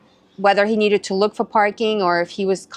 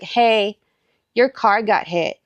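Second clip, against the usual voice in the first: nonchalant; slower than usual. Retold or imitated. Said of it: "very nonchalant, like very casual".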